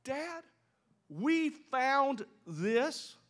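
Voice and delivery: light, high, offhand "Hey, Dad" asked slowly; casual sons' question. Acted. Brothers casually handing the bloody coat to their father. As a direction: ask it innocently, just planting a hint. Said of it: "Notice his son's words".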